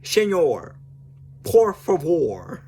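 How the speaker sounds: hammed-up Spanish accent; put-on Spanish accent. Shown as a demonstration. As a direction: attempt a Spanish accent, stretching the words. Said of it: "see if I can do an accent".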